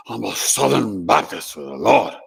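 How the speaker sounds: a hint of a devout Southern Baptist declaring faith; mock Southern Baptist believer. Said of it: "I'm not making fun of it".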